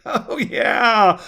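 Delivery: high-pitched exclamation; exclaiming. A narrator's reading. Wife suddenly remembering something to tell her husband, exclaiming. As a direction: pipe up as if just remembering. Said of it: "Louise exclaimed".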